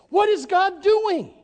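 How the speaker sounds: high, slow, wondering question; puzzled angels. Retold or imitated. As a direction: ask it like a baffled angel.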